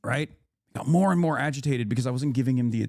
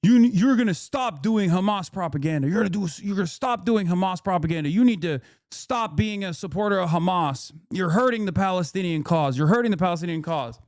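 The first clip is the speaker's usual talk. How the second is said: retold yelling; 3 semitones higher than usual. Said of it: "and yelling still".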